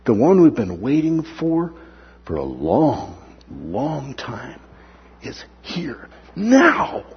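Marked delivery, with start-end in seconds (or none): 2.3-7.0 slow, voice breaking with emotion; tearful, slow wonder; choked up. Real, not acted. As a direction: let the voice catch on it. Emotional climax of the Messiah's arrival.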